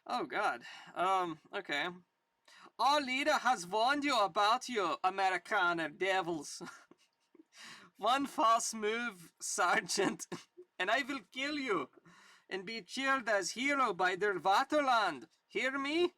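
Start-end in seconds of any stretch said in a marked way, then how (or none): 2.8-6.6 put-on German accent. German soldier warning his enemy, hammed-up German accent. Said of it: "I gotta get my German accent". 8.0-16.1 higher, hammed-up German threat; German accent. German soldier threatening the sergeant, hammed-up German accent. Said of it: "I gotta get my German accent".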